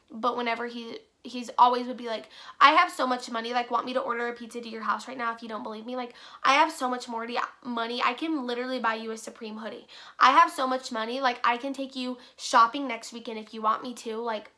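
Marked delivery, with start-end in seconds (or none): 2.6-14.2 mock money bragging, key boasts punched; lightly mocked rich-boy boasting; showing off, mimicked. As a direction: imitate someone showing off their riches. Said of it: "always show off his money".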